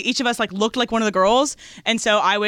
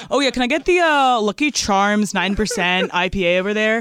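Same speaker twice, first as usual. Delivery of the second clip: IPA guy impression. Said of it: "that's my I P A guy impression".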